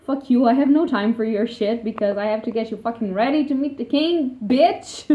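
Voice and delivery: bossy Genya. Retold or imitated. Genya retold bursting in.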